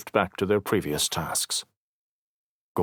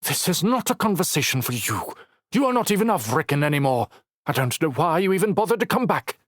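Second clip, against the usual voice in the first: hissing; 9 semitones higher than usual. Acted. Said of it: "she hissed".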